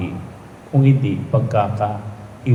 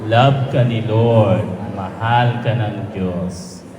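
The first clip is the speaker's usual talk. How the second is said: slow prompted phrase; slower than usual. Shown as a demonstration. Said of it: "Sabihin mo".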